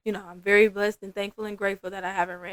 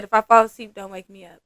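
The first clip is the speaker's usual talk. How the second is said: straight-up warning; 12 dB louder than usual. Retold or imitated. Client warning her massage therapist before dozing off, straight up. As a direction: imitate a client bluntly laying down a rule. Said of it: "straight up told me".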